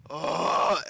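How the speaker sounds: imitated long meme "oh"; loud "oh" noise. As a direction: draw out a mock-loud "oh" at moderate volume. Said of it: "the, like, loud".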